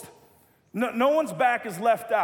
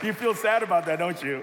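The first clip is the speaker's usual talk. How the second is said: laughing tease. Real, not acted. Teasing youth while laughing.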